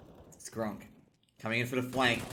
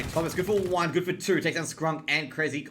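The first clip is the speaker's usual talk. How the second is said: rising, louder hype call on the kills; excited call; 4 semitones higher, 5 dB louder than usual. Real, not acted. Caster hyping a double kill, excited.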